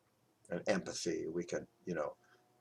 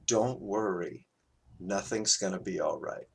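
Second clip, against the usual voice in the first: savoured quote. Retold or imitated. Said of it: "he said it so beautifully".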